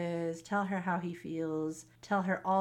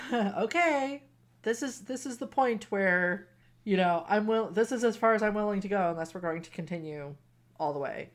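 urgent mock protest; 4 dB louder than usual. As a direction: blurt it out like he's hitting the brakes. The speaker stopping in a heated moment.

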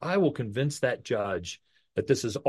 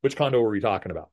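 mock evasive stammer; 3 semitones lower, faster than usual. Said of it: "deflect it, dodge".

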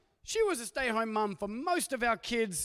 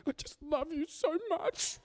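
much higher, slow, lightly voiced sweet five-year-old; sweet little boy; 8 semitones higher, slower than usual. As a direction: coo it like a small son on speakerphone. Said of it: "And he's like".

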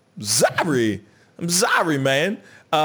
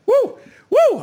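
whoop; 7 dB louder than usual. Real, not acted. Celebrating his German.

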